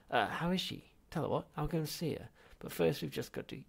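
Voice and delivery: high, fast nervous chatter; babbling. Acted. Zaphod hurrying his ancestor along, flustered. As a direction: rush through it anxiously.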